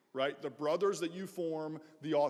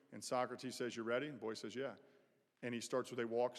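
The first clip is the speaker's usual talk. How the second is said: hushed, storytelling voice for the Socrates parable; story narration; 3 semitones lower than usual. Acted. Tells a parable in the chapel.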